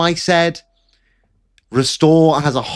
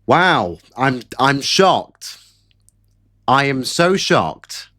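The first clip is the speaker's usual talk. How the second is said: slow, deadpan fake surprise; mock shock; much slower than usual. Real, not acted. Streamer feigning shock at expected result, slow deadpan. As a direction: pretend to be shocked, slowly and flatly.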